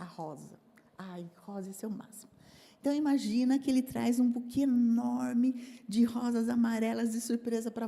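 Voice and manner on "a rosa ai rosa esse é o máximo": much softer, lower, half-whispered; dreamy hush. Acted. Wife picturing her rose, soft dreamy whisper. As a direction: swoon quietly over the rose.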